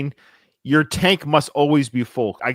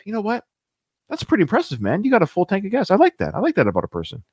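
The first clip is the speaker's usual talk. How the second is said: higher-pitched, lightly hammed-up compliment; mock admiration; 6 semitones higher, faster than usual. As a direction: pretend to be an impressed passenger. Imagined admirer praising a full tank.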